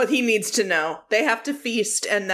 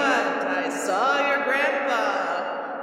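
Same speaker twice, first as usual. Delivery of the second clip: put-on young person faking old; 3 semitones higher than usual. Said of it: "He can do a pretty good old man impression".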